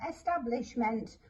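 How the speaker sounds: "establishment" sounded out with a full E at the front; mispronounced by sounding out. Shown as a demonstration. Teacher mimicking a child decoding the word, sounded-out mispronunciation. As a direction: say "establishment" letter by letter, first vowel as in "egg". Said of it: "It's not establishment".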